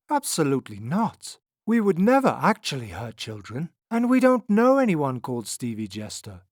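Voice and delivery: high, loud shocked protest; shocked denial. A narrator's reading. Fortune teller answers an accusation, shocked and indignant. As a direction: deny it, shocked and emphatic. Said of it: "The fortune teller looked shocked".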